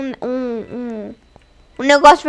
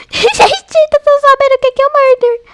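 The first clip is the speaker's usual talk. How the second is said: giggly glee; 10 semitones higher, 4 dB louder than usual. Real, not acted. Laughing about knowing the murderer.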